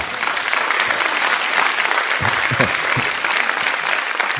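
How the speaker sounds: long real laugh. Real, not acted. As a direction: laugh it out at length. Laughs after telling wedding story.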